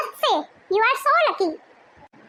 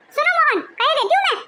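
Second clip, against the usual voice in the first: raised, insistent demand; angry ultimatum; 4 semitones higher than usual. Acted. Wife demands husband throw his family out, angry. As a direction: lay down the law with heat.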